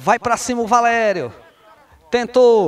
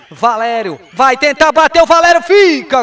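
louder, higher chance call; excited call; 4 semitones higher, 6 dB louder than usual. Real, not acted. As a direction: lift the voice for the shot. Shot chance, rising call.

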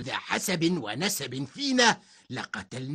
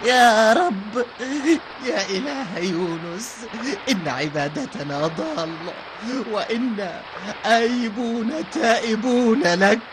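crying voice. Acted. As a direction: wail to God in tears. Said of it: "وقال آخر بصوت باكي".

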